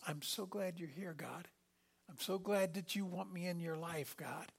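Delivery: soft, sincere grateful prayer; tender prayer. Retold or imitated. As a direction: speak to God gently. Tender thankful prayer voiced.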